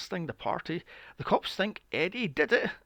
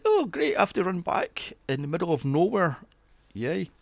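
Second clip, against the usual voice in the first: sarcastic Eddie; 2 semitones higher than usual. Retold or imitated. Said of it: "and Eddie's like".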